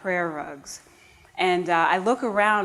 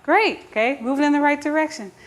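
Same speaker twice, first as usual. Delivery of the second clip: higher, louder, fast excited thought; excited inner thought; 8 semitones higher, 4 dB louder, faster than usual. Retold or imitated. Narrator secretly thrilled by Madame's praise, higher fast excitement. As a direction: rush out a thrilled little thought. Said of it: "I thought".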